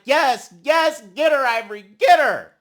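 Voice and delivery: gleeful shouted encouragement; cheering on. Retold or imitated. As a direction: yell like a fan at a fight. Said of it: "And I'm like".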